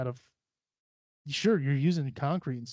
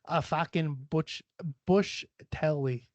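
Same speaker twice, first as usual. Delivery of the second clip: slow mock Aussie accent; Australian accent; slower than usual. Shown as a demonstration. Showing off slang for camping, slowed Australian accent. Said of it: "I do a lot of fucking, uh, accents".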